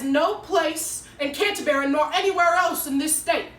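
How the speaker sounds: stern, measured public denunciation; segregationist orator. Acted. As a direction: declare it like a hostile town spokesman, pressing harder at the end. Segregationist's speech acted out.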